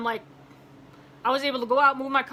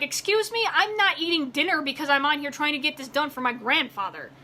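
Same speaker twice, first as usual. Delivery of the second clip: getting heated; 3 semitones higher than usual. Retold or imitated. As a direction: let the indignation rise as you retell it. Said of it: "Sorry, I'm getting heated".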